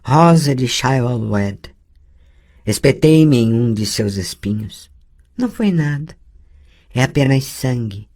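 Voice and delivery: lightly voiced girl, calm; a girl calmly explaining the thorn; the girl shrugging off the wound; calm young girl. Ciri's voice continues.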